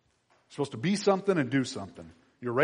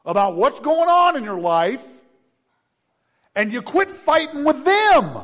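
loud, higher, slow and emphatic preaching; full-force preaching; 10 semitones higher, 12 dB louder than usual. Acted. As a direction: preach it out hard to the church.

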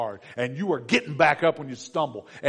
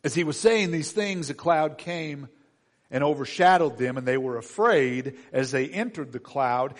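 normal talking voice

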